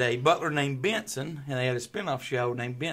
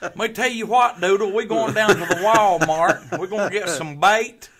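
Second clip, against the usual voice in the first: put-on Southern accent; 5 semitones higher, 7 dB louder than usual. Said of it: "Do a southern accent for us".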